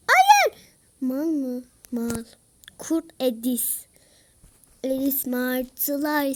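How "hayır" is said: very high loud laughing cry. Real, not acted. Gamer laughing in disbelief, squealing.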